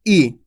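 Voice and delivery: ई kept short as a quick 'i'. Shown as a demonstration. Teacher showing the short i to students, brief. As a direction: clip ई off briefly. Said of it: "इसका उच्चारण कम होता है".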